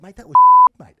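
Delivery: high, loud squeal of disbelief; laughing mock outrage. Player chesting up the referee after the loss, laughing outraged squeal. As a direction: shriek it through laughter at the ref.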